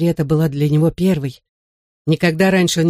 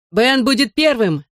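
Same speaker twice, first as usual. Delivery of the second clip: excited higher-pitched call; 6 semitones higher than usual. A narrator's reading. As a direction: announce it to the whole group. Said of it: "крикнул я".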